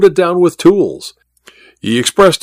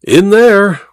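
higher, emphatic falling confirmation; firm repetition; 8 semitones higher, 4 dB louder than usual. A narrator's reading. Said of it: "repeated Welton".

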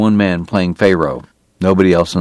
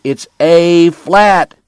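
much higher and louder, yelling at the piano; furious shout; 9 semitones higher, 4 dB louder, much slower than usual. Acted. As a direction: bark the correction across the saloon. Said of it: "Doc shouted".

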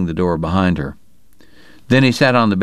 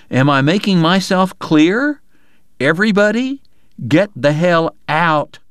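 exasperated order; 7 semitones higher than usual. Acted. Doctor throwing everyone out.

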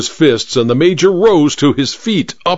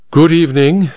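polite but assertive; 4 semitones higher than usual. Acted. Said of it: "she said politely but assertively".

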